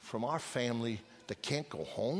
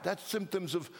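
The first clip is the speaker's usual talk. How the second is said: preaching climax; 7 semitones higher than usual. Acted. Preacher pleads with parents to bring children home, crying out. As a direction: hammer it home, higher each time.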